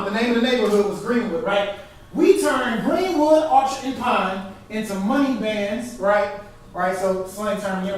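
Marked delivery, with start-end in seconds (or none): 2.1-6.0 recited rhyme line. Shown as a demonstration. Reciting a verse line to explain it.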